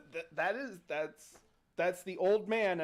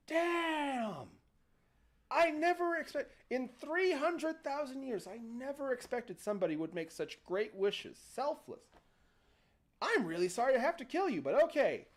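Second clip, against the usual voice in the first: higher-pitched, startled genie voice that turns apologetic; genie's exclamation; 4 semitones higher than usual. Acted. Genie to the old man, startled, then apologetically explains he must kill him. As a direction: play the genie, amazed and then mock-sorry.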